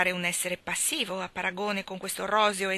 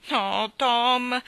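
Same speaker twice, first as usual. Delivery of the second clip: put-on higher, louder pleading girl; 6 semitones higher, 6 dB louder than usual. A narrator's reading. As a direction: beg him, voice lifted. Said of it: "implorava Maggie".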